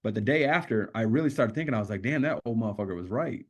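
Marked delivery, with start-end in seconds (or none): 2.0-3.4 rueful laugh through the words; man laughing as he admits the counselor was right; laughing realization. Real, not acted. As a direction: admit it while chuckling.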